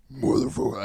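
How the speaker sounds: half-effort try at a deep voice; deep voice demo. Shown as a demonstration. Host shows friends his voice, casual deep attempt. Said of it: "could probably go a little bit deeper".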